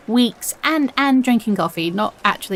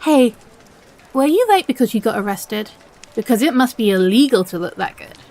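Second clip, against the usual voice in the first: cheesy pickup line; 3 semitones higher, 4 dB louder than usual. Acted. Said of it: "wait, I have more".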